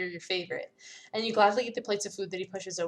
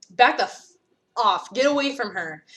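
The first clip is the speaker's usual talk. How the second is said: furious shout; 6 dB louder than usual. Acted. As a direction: bark it to drive him off. Carmen rescuing with a bat.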